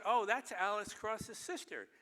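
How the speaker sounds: lightly voiced Morgan Freeman, slow and pleased; mock Morgan Freeman.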